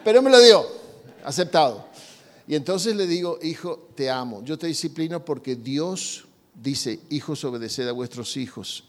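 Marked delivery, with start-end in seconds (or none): 3.4-8.8 calmado, grave y pausado; lower, softer voice of a father reassuring his son; padre cariñoso. Acted. Padre habla con cariño al hijo. (padre tranquilo y cariñoso)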